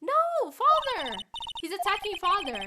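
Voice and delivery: put-on high, loud threats and a child's scream; frantic screaming. Boy watching his father attacked, frantic screaming. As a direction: shriek in terror for father.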